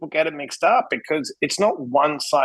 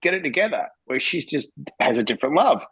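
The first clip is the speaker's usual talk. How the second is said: blunt dad to son; 2 semitones higher than usual. Retold or imitated. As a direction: push him hard to shape up, building up. Tough talk to son.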